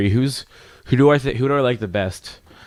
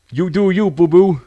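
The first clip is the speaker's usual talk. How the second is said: higher, playful sing-song; hammed-up cutesy cheer; sassy encouragement; 7 semitones higher, 3 dB louder than usual. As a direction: tease it out like a sassy pal. Playful ad-lib as character.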